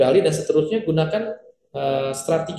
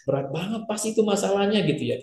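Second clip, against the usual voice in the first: soft, sympathetic "Wah", pitch lifted; empathetic response; 5 semitones higher, 4 dB quieter than usual. Shown as a demonstration. Coach showing empathy for a heavy problem. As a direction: sympathize gently with the speaker. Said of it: "menunjukkan antusias".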